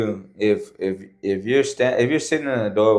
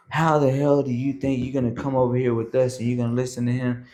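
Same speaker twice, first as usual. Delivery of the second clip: higher-pitched imitation of indignant instructors; mock angry scolding; 4 semitones higher, faster than usual. Two instructors scolding a recruit, mock angry. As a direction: chew out a recruit in a put-on voice.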